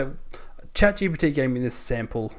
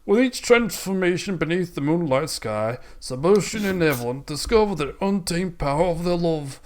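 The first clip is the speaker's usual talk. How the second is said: hammed-up British romance narrator; higher, theatrical British reading; British accent; 3 semitones higher than usual. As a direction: put on a mock British accent, grandly. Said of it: "I went British again".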